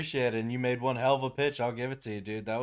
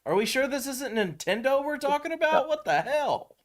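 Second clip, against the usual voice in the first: exasperated disbelief; 11 semitones higher than usual. Retold or imitated. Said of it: "I'm like".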